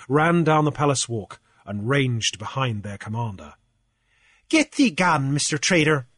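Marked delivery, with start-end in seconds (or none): 4.5-6.1 pompous command, pitched up; ordering Cornelius. Acted. Cornelius ordering Grief away, mock-grand command. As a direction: order the trader off like a petty king. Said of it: "Cornelius ordered".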